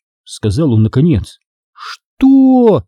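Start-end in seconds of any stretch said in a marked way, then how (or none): 2.2-2.8 sharp, high, loud yell. A narrator's reading. Stephanie yells at Seth over the lie. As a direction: scream the word in outrage. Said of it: "заорала Стефани".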